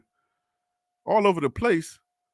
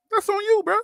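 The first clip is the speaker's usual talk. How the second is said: pointed callout; 13 semitones higher than usual. Real, not acted. Arguing with a commenter.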